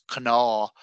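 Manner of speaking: "Cná" said as kuh-naw, slowly; Munster Irish pronunciation. Shown as a demonstration. Teaching co-host Munster Irish, slow "Cná" as kuh-naw. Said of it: "it's pronounced".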